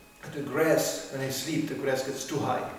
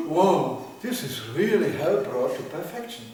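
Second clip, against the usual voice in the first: mock shock; 3 dB louder than usual. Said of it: "Today I feel like".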